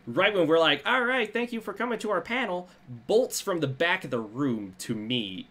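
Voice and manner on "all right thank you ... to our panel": announcer voice. Retold or imitated. Host quoting own panel sign-off.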